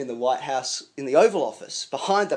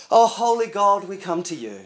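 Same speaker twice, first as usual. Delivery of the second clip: put-on pious lilt, loud opening then easing; mock-solemn sing-song praying; sing-song prayer voice; 3 semitones higher, 5 dB louder than usual. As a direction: imitate an Anglican intoning a prayer. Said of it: "it's a little bit sing-song like this".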